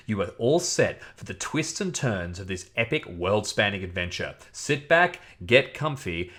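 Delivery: lightly dramatic adventure introduction; dramatic reading voice. Shown as a demonstration. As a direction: read it as a measured, suspenseful prologue with emphatic phrase openings. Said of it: "my best and most dramatic voice".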